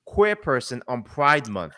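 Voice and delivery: slow, mocking whiny victim voice; slow sarcastic imitation of a complainer; mocking quote. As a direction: parody his excuse, drawn out and slow. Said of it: "flipped it and said this".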